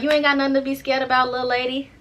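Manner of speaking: a hint of a Chicago guy sweet-talking his girl; Chicago boy accent. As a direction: do his Chicago accent lightly, reassuring her. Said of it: "He had that little Chicago boy accent".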